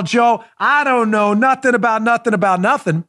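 playing dumb like Sergeant Schultz; know-nothing denial, mock innocent. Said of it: "Sergeant Schultz style".

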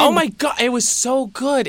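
drawn-out, high "so good"; gushing. Real, not acted. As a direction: rave about it, slowly savoring each word. Gushing over the show.

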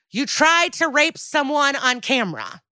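high, exasperated disbelief; indignant, astonished rebuke; incredulous. Real, not acted. Incredulous answer to Josh's protest.

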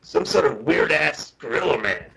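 imitated American witness; mock American voice, retelling a sighting; American accent. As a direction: put on an American accent for the quote. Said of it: "in an American accent".

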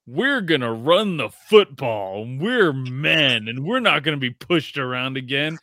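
mocking the Rams, chest puffed; mock tough guys. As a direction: puff up your chest and brag. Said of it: "chests all puffed out".

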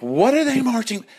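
high, bitchy scoff; gay men scoffing at marchers; catty gays. Retold or imitated. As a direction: sneer it jealously. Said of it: "And they're like".

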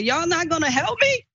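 high, pleading cry for help; desperate scream. Retold or imitated. Woman begging bystanders for help, high pleading scream. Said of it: "that's what I was screaming".

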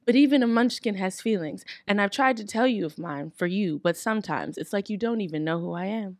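heartfelt. Acted.

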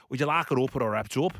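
lightly imitated Scouse, quick; Scouse accent. Takeaway lady asking a customer, imitated Scouse accent. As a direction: rattle it off in a mock Scouse accent. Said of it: "in the strongest Scouse accent".

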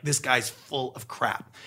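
soft, slow mutter under the breath; muttered aside. Retold or imitated. Listener leaning away from an elevator pitch, muttering quietly. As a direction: grumble it quietly to yourself, unconvinced.

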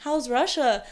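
hint that something is up; loaded question. Retold or imitated. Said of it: "with that exact tone".

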